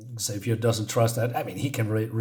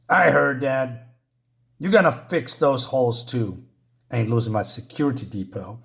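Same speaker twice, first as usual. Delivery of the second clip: gruff bully voice. Retold or imitated. Foster parent growls at Scott.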